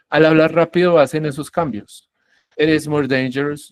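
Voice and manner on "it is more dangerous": "It is" linked with a tapped t; fast-speech flap. Shown as a demonstration. Teacher demonstrates changes in rapid speech, flapped T. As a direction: say "It is" as "iris" before "more dangerous". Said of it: "yo hablo rápido y digo".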